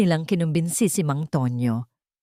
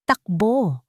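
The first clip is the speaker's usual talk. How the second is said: shout; 5 semitones higher than usual. A narrator's reading. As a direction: yell to run. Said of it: "sigaw ni Alejandro".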